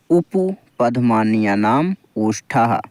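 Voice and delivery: उपपदमान्यानाम ओष्ठः said slowly and evenly for copying; slow model recitation. Shown as a demonstration. Teacher asking students to pause and repeat, slow recitation. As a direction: recite it slowly so they can follow. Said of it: "बोलने का प्रयास करें दोस्तों video को pause करके".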